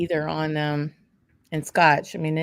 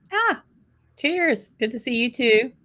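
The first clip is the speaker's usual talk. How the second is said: high bright cheers, raised glass; cheery toast; 6 semitones higher than usual. Real, not acted. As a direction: toast a friend warmly. Toasting a friend on call.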